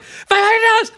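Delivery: very high screamed mock Asian accent; yelling, Asian accent. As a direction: peak of a shouting match, caricatured Asian accent. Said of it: "they're just yelling at each other".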